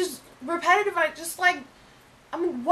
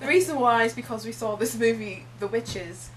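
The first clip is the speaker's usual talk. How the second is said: fake British accent; 5 semitones lower, 3 dB quieter than usual. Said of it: "we used to talk in British accents".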